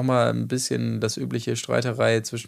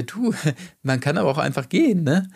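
laughing while advising; 5 semitones higher than usual. Retold or imitated. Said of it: "so komisch beigelacht".

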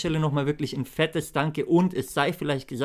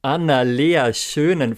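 hyped giveaway announcement; 4 dB louder, slower than usual. Real, not acted. Winner announced in giveaway draw.

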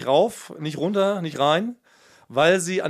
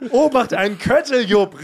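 retold warning call; 4 semitones higher, slower than usual. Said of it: "rief ich".

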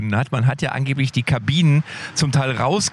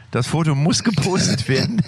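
lachend; 5 semitones higher than usual. Real, not acted. Lustiges Foto von drei Hunden.

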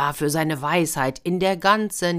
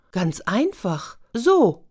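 cheeky demonstration; 5 semitones higher, much slower than usual. Acted. Boy demonstrates eating the cake.

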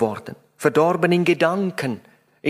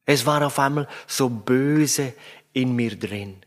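put-on mildly weepy child. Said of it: "mit weinerlicher Stimme".

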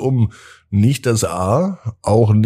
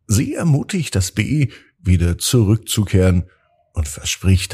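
calm, gentle bedtime storytelling; sleep story narrator. A narrator's reading.

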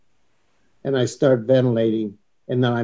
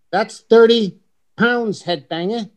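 a light, higher-pitched imitation of an English accent; 9 semitones higher, slower than usual. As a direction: tease him in a lightly mocked English accent. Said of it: "his perfect English accent".

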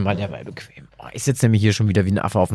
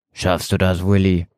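gentle. A narrator's reading. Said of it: "fragte er jetzt sanft".

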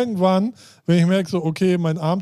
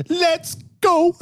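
excited; 14 semitones higher than usual. Real, not acted. Host kicks off the question.

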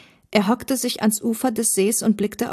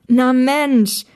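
higher, louder joyful cry; delighted exclamation; 5 semitones higher, 6 dB louder than usual. A narrator's reading. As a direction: greet an old friend with delight. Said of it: "rief Thomas erfreut aus".

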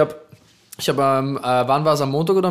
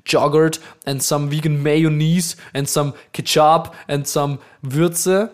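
slow drawn-out; slower than usual. Acted. Slow mock English listing.

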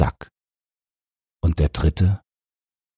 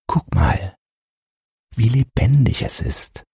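put-on higher, a mother beaming over her baby; proud; 7 semitones higher than usual. A narrator's reading. Mother proudly showing her husband the newborn, higher and beaming. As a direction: show off the child with pride. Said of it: "sagte sie stolz".

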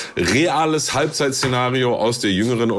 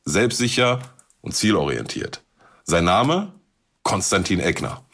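dramatic scenario narration. Acted. Host reads dramatic scenario intro.

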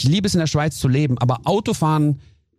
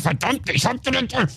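retold car outburst; 8 semitones higher than usual. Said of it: "weil ich mich total vergessen hab".

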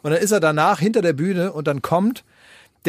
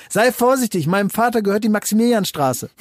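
put-on bratty child; 5 semitones higher than usual. Five-year-old warning an adult at a party, high child imitation. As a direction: imitate a small child issuing a threat. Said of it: "der war so fünf oder sechs".

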